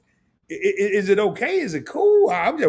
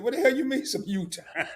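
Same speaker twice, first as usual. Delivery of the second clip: laughing replay; 3 semitones higher, 4 dB quieter than usual. Retold or imitated. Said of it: "I can hear me saying".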